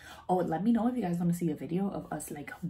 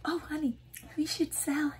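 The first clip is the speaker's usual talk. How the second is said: mocking husband; 10 semitones higher than usual. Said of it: "tell me that".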